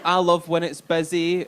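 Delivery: slow, mock-eager boast; lightly sucking up; fake keen applicant. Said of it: "So everyone's like".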